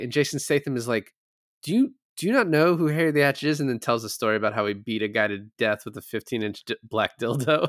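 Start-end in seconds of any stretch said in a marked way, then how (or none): 1.6-3.6 higher, fast, hammed-up threatening gangster; mock tough-guy threat. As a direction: rattle it off like a cocky hard man. Statham threatening quote retold.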